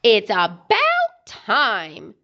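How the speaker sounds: slow, impatient mock scold; a wife scolding a late husband, drawn out; mild scolding. Wife scolding late husband, mildly scolding. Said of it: "scolded Missus Pig".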